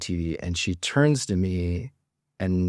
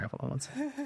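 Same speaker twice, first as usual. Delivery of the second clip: a teary laugh breaking through the words; choking up and laughing it off; near tears; 11 dB quieter, faster than usual. Real, not acted. Telling how he met his wife, choked up with a teary laugh. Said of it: "Sorry for the near tears".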